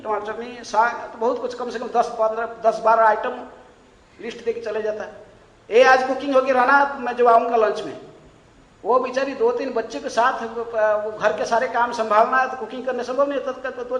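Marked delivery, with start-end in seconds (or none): 5.7-8.0 loud, demanding husband's command; bossy order. Retold or imitated. Husband ordering wife to cook, loud and bossy. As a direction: bark the order at his wife.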